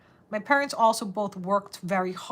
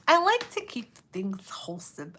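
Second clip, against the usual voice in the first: whisper. Real, not acted. Streamer whispers to viewers about keeping things wholesome. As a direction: breathe it like a secret to the chat.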